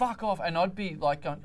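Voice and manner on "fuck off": raised, high mock yell; retold scream. Imitating girlfriend cursing her running partner, retold scream. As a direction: imitate her yelling, slightly held back.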